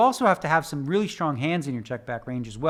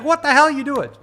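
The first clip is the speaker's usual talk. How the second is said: incredulous quote; 10 semitones higher, 7 dB louder than usual. Retold or imitated. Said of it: "She's like".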